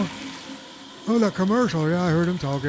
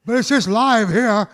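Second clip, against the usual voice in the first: radio announcer. Acted. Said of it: "I sound like Ricky Radio".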